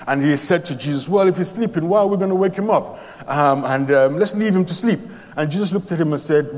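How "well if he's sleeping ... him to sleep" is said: higher, puzzled objection; doubting protest. Retold or imitated. Doubting Thomas questions Jesus, higher and puzzled.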